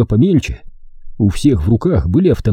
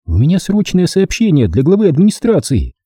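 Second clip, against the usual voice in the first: громко; 7 semitones higher than usual. A narrator's reading. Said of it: "громко сказала я". (громко, повышенным голосом)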